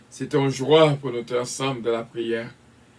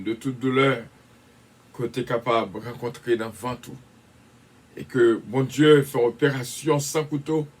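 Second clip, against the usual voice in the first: prayer. Acted. Prays for healing aloud.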